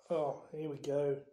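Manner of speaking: low grumbled resignation; bitter. Acted. Nick as the headless hunt arrives, bitter. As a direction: mutter it bitterly. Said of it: "said Nearly Headless Nick bitterly".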